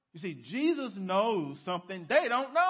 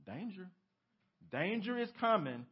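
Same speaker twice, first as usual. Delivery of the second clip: robot warning. Retold or imitated. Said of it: "the robot has to tell him".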